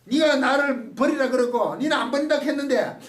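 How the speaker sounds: mock glaring rebuke, rising to a shout; mock scolding Jesus. Jesus glaring at Peter who denied him, mock angry shout. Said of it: "그 째려보는 게 아니라는 거지".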